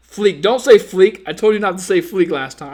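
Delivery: loud, playful telling-off; mock scolding. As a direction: scold the chat, half joking. Scolding viewers for saying fleek.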